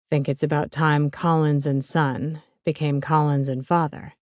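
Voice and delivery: a lightly voiced older father. Stan keeps speaking.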